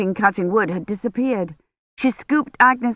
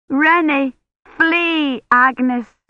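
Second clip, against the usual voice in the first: cried out; 7 semitones higher, much slower than usual. A narrator's reading. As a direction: cry out to her to run. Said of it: "she cried".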